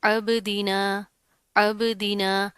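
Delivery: अबदीना slowly, with a bouncing b; qalqalah on b. Shown as a demonstration. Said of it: "कलकला करेंगे". (अबदीना, बा पर कलकला)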